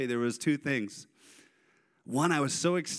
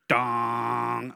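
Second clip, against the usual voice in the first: imitated rim clang; 3 semitones lower, 4 dB louder than usual. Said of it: "all you hear is".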